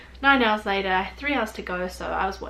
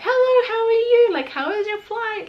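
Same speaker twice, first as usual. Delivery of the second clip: high, loud, singsong airport welcome; bubbly mock-welcome, pitched way up; super friendly greeting; 12 semitones higher, 8 dB louder than usual. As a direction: imitate an over-friendly greeter chirping hello. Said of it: "it was super friendly".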